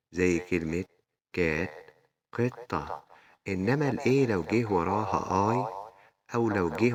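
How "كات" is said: كات with a short, open "a". Shown as a demonstration. Teacher showing pupils a mid-word A, short A in كات. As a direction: say كات with the short English A of "apple". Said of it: "بتتنطق برضه شورت A".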